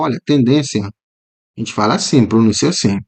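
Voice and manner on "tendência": tendência said naturally, the final i gliding into a; everyday pronunciation. Shown as a demonstration. Teacher showing students casual tendência pronunciation. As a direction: say tendência as in relaxed Brazilian speech, ci-a as one syllable. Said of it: "Quando a gente tá conversando normal".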